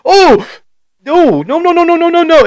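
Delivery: high, loud string of comic alarm; mock panic. Dad retelling how he hushed his kid, mock panic. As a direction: frantically try to hush it, hammed up.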